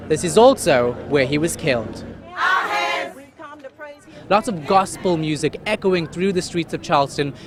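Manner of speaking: crisp, measured news-anchor delivery; news anchor read. Acted. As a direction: read it like a polished evening bulletin. Reporter reading a news report.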